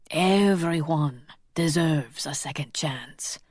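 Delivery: slow, hushed whisper. A narrator's reading. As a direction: breathe it gently. Jean-Luc sighs, gentle.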